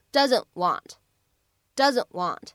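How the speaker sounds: "doesn't want" with the first t unreleased; "doesn't want" joined, middle t barely sounded; incomplete plosion. Shown as a demonstration. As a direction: hold the t of "doesn't" straight into "want". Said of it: "类似不完全爆破的现象".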